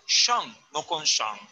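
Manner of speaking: Shang in fourth tone, not third; wrong tone contrasted. Shown as a demonstration. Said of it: "tercero, no".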